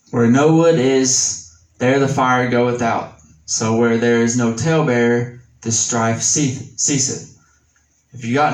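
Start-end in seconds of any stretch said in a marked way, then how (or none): 0.1-7.2 measured, slightly raised reading of scripture. Acted. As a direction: read the verse with weight, a touch slower. Reads Proverbs in scripture voice.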